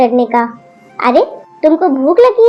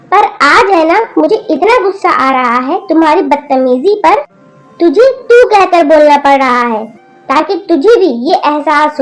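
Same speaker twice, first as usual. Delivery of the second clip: scolding grandmother. Acted. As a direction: tell off the rude granddaughter. Grandmother's long angry scolding. (पोती को गुस्से में डांटती दादी)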